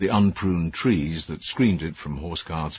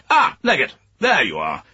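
loud, higher calling down a corridor; military call; 8 semitones higher, 6 dB louder than usual. Acted. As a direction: call out like an officer. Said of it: "A military voice called along the corridor".

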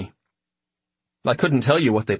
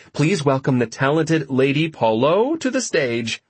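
announcer voice; 4 semitones higher than usual. Acted. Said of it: "I'm your announcer".

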